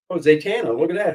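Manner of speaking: ordinary talk, nothing marked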